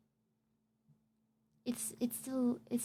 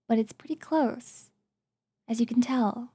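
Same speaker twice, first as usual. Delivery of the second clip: ordinary talk, nothing marked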